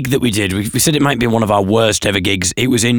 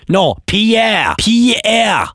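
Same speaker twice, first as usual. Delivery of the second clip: high, exasperated French officer correcting; French language police; 9 semitones higher, much slower than usual. Acted. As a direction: correct the parrot in hammed-up French, high-pitched. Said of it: "imagine the language police turning up".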